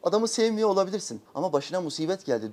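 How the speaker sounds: normal talking voice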